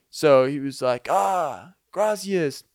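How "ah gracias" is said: high-pitched, put-on Hispanic accent. Visitor thanking host on coming inside, Hispanic accent. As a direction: imitate a grateful man in a Hispanic accent. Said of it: "Didn't do the best Hispanic accent ever".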